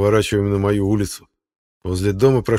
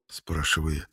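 plain reading voice

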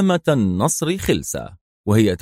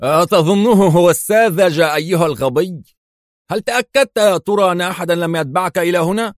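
higher, fast sneering questions; mock his stupidity; scornful mockery; 8 semitones higher, 3 dB louder than usual. A narrator's reading. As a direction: boss sneering at a foolish henchman. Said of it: "وضحك ساخرا".

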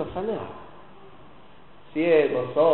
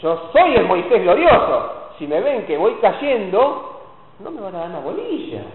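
mock proud Moses; 5 dB louder than usual.

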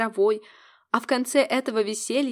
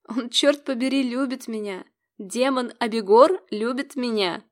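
giddy disbelief; 2 semitones higher than usual. Acted. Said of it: "и я заору, как ненормальная от счастья".

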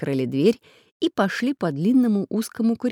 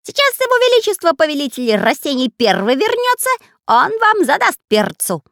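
shrieking parrot; 10 semitones higher, 7 dB louder than usual. Acted. Parrot screeching at escaping prisoners. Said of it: "кричал попугай".

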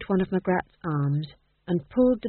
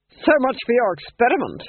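smug duchess; 4 semitones higher, 6 dB louder than usual. Acted. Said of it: "she said to her husband".

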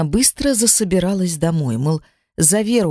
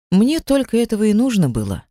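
ordinary delivery, nothing marked

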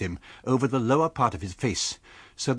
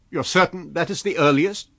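incredulous; 8 semitones higher, 8 dB louder than usual. A narrator's reading. Stranger presses landlady.

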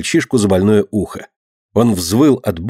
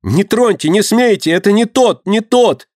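terrified scream; 10 semitones higher than usual. A narrator's reading. Dinka screams at the crowd, frantic with fear. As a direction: shriek it out mad with fear. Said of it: "обезумев от страха, кричала Динка".

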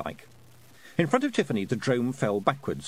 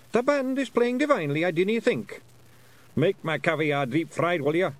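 much higher, mock-genteel wee Scots voice; mock-posh Feegle shout; 7 semitones higher, 4 dB louder than usual. Feegles faking posh chat at the ball, mock-genteel Scots. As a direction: put on airs while bellowing. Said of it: "you screamed politely".

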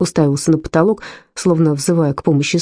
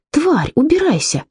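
furious shout; 11 semitones higher than usual. A narrator's reading. Mother throws out the maid.

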